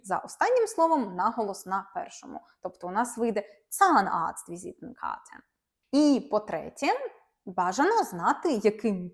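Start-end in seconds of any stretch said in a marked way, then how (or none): 3.7-5.4 Zahnarzt-Visitenkarte with main stress on Zahn; teacher stressing the first part of Zahnarzt-Visitenkarte. Shown as a demonstration. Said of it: "Основний наголос ... на першу частинку".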